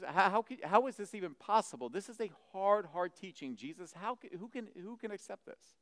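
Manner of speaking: high, incredulous, stammered questioning; grumbling disbelief. Retold or imitated. Disciples question Jesus over a hard teaching, incredulous. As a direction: act out a bewildered follower who can't accept it. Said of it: "They began to grumble".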